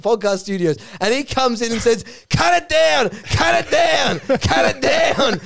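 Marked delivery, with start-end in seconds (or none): 2.3-5.4 drawn-out, raised order; mock commanding yell. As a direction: imitate someone barging in to call a halt. Bartlett barges in to stop them.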